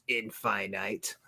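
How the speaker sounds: "Infinite" said as in-FYE-night; joke pronunciation. Real, not acted. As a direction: say "Infinite" with a long "fine" and "night". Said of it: "pronounced it as, you know, Infinite".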